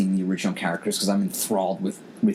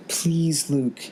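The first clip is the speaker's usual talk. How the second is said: higher, slow, imploring little voice; pleading child; 9 semitones higher, much slower than usual. Retold or imitated. Nephew begging Luke to save them, slow high plea. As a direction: beg like a kid praying to a hero. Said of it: "my nephew's saying to himself".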